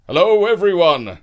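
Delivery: Ian greeting. A narrator's reading. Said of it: "Ian said".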